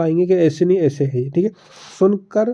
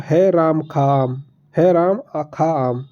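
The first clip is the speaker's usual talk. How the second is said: slow, jumbled words said haltingly; scrambled word order; slower than usual. Shown as a demonstration. Teacher demos muddled speech to students, slow and jumbled. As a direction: garble the sentence on purpose. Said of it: "और मैं बोलता हूँ".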